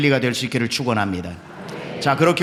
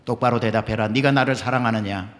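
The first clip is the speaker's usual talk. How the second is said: voice of the Lord; 5 semitones lower, 3 dB quieter than usual. Acted. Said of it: "주님이 또 묻습니다".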